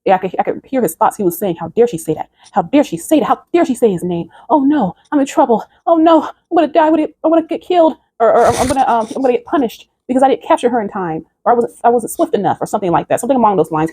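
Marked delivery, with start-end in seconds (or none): 1.6-4.3 imitating a demon's panicked thoughts; lightly acted alarm, rising in pitch; retold panic. Demon's thoughts after hearing the name, mild panic. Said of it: "He was just panicking". 4.5-12.6 high-pitched mock panic, words tumbling out; panicked demon. Demon dreading punishment for failing to capture her, panicking. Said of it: "He was just panicking".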